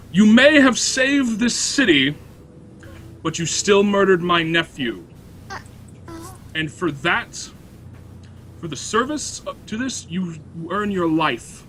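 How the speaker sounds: lightly voiced stern noblewoman; noble judge. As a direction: pronounce the sentence slow and cold. Noblewoman addresses the chamber.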